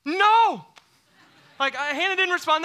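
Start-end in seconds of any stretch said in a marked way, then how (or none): 0.0-0.7 loud high shout; emphatic no. Real, not acted. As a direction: blurt it out with a huge no. Preacher's emphatic answer.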